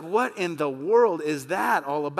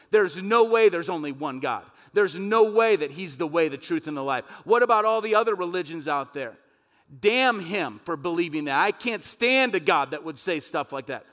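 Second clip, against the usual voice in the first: louder, indignant mock rant; defiant scoffing; 5 dB louder than usual. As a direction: sneer at God like a rebel. Mocking the defiant damned.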